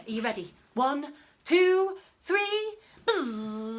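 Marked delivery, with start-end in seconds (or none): 3.0-3.8 fly buzzing. Shown as a demonstration. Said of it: "we'll all go buzz like a fly together".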